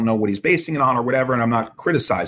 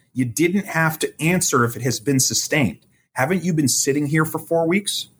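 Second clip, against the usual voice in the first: imitating mild exasperation, pitched higher; exasperated lawyer; 5 semitones higher than usual. Lawyer chiding his client for answering a sustained objection, mildly exasperated. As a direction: quote a lawyer's exasperated scolding with a light touch. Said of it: "he said it in an exasperated tone".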